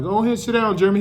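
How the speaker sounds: high mock teacher telling him to sit; teacher's voice. Teacher telling Jeremy to sit down, high mock voice. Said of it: "He was like".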